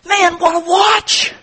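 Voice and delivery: high, slow, wonder-struck voice; awed admiration. Acted. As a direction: savor every word like a kid with a toy. Buyer marvels at watch.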